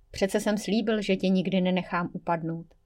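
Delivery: soft, gentle reassurance; calm her down tenderly; soothing. Acted. Devil quietly comforts Jenny, softly reassuring. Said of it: "Chlácholil jsem jí tiše".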